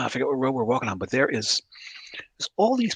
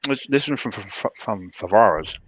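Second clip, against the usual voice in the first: mouth full. Real, not acted. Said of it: "can't say that with cannoli in your mouth".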